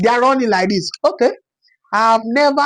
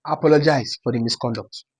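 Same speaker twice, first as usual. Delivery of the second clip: mock formal apology; 10 semitones lower, 6 dB quieter than usual. Drops from chant to formal apology.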